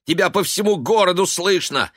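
high, loud exasperated plea; angry urging. A narrator's reading. Son urging his raging father, angrily. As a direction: scold him to calm down. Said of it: "сердито уговаривал он".

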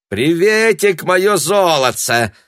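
high, loud cheerful greeting; cheerful call. A narrator's reading. Papandopol greets Tanya running down the steps, cheerful. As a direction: call out gladly. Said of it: "закричал он".

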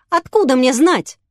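put-on girl shouting at the detective. A narrator's reading. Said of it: "закричала Юля".

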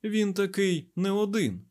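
slow, high, softened insistence; mild, measured emphasis; gentle repeat. A narrator's reading. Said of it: "м'яко повторив Айзек".

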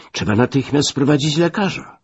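high, urgent call for help; zaniepokojone wołanie. Acted. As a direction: raise the pitch as if calling in alarm. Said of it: "zawołałem". (wysokie, naglące wołanie)

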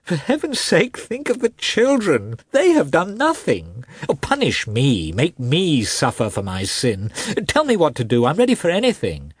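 high, tearful begging; sobbing plea. A narrator's reading. Husband begs wife to think of the children, sobbing. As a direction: plead through sobs, pitch leaping up. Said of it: "now actually sobbing".

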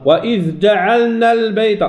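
جعلنا with the ل merged too fast; wrong reading. Shown as a demonstration. Teacher demonstrating another wrong جعلنا. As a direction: clip the ل of جعلنا. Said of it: "خطأ".

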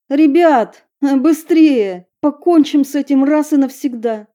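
urgent excited. Acted. Stella urges friends.

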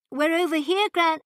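loud, high call cut short; calling into the storm, cut off. Acted. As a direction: shout to be found. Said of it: "she called out".

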